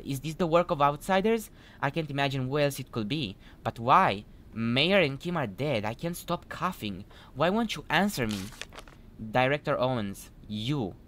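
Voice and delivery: mildly hammed-up plea, lively swinging pitch; dramatic email read-aloud. Player reading a desperate email to Director Owens, dramatised.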